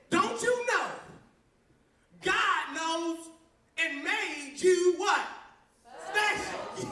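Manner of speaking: preachy youth pastor. Retold or imitated. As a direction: lean in and preach it. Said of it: "one youth pastor told me".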